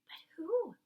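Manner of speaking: startled hushed question; whisper. Acted. Sophie whispering back, startled, at the Queen's window. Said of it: "she whispered back".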